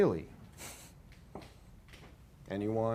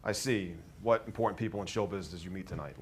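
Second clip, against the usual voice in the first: sarcastic; 3 semitones lower than usual. Acted. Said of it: "Like, sarcastically".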